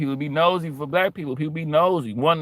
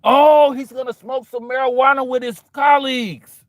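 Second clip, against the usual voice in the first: high, loud proper voice; prim onlooker; 8 semitones higher, 5 dB louder than usual. Retold or imitated. Onlooker explains the call to friends, high and proper. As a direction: announce it primly. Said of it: "He said".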